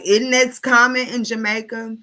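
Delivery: high mocking commenter voice. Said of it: "they're like".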